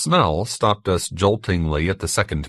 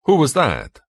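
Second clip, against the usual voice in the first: higher, pinched question; pinched, holding breath; 8 semitones higher, 4 dB louder than usual. A narrator's reading. Benito asking the narrator about George, pinched breath-holding voice. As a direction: ask it as if holding your breath. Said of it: "the pinched voice of a man holding his breath".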